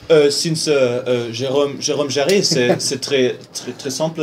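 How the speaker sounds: halting mock French; hesitant French-accent attempt. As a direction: stumble along in put-on French. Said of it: "the French accent a little bit".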